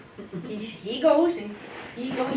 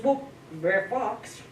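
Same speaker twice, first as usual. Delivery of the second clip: dim wolf voice; 5 dB quieter, slower than usual. Acted. Brer Wolf greets sad fox.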